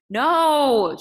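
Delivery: put-on high, loud child's shout; frightened girl shouting no at her father. A narrator's reading. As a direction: scream your refusal. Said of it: "she shouted".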